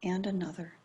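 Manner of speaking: calm, unhurried meditation guidance with long pauses; guided meditation. Acted. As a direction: ease listeners gently into attending to the breath.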